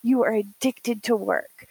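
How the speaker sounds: drawn-out, exasperated retold telling-off; mild mock yell. Yelling at grandma when she was cleaning, mild mock yell. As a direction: scold in slow, emphatic mock disbelief. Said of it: "I started yelling at her".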